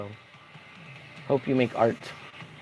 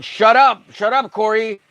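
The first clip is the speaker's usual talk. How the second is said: mock annoyance; 5 semitones higher, 3 dB louder than usual. Mock telling off a chatter.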